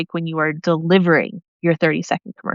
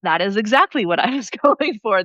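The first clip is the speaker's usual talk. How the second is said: pleased laughing. Retold or imitated.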